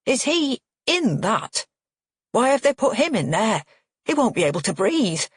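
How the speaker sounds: staring at the coffin, aghast; father horrified his brother is in the coffin; horror-struck. Acted. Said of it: "horror-struck at the coffin".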